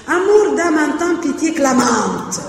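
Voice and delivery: verse recitation; reciting a verse draft. Shown as a demonstration. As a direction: sound out the draft line with full cadence. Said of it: "c'est clamante encore moins".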